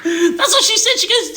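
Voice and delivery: real high, squeaky laughter through the words; cracking up. Real, not acted. Storyteller cracks up at old lady's line, laughing hard. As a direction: barely get it out for laughing.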